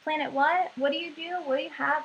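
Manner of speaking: mildly bewildered, voice lifting on each question; confused caller. Retold or imitated. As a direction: imitate a baffled customer on the phone. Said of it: "they're really confused".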